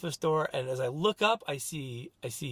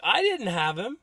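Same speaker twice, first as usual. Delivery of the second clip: higher-pitched retold denial; retold defensive protest; 5 semitones higher, 4 dB louder than usual. Husband answering wife about the missing boy, defensive. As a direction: push back in protest, pitched up. Retold argument over who had son.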